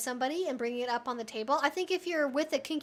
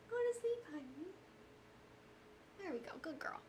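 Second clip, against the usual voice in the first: soothing a pet; 3 semitones higher than usual. Real, not acted. Settling the pet back down.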